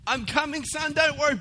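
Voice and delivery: high, loud mock-heroic shout; calling out. Dad bolting to his crying son, hammed-up heroic calling out. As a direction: shout reassurance as you charge through the dark. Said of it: "I'm calling out".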